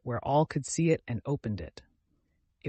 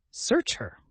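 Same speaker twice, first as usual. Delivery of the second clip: shrill furious command; sharp command; 8 semitones higher than usual. Acted. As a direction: order them to search her. Demanding a search.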